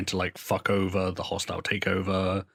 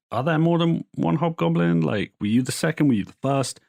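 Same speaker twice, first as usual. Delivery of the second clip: pushy reporter; 8 semitones higher than usual. Retold or imitated. Reporters questioning at a press scrum.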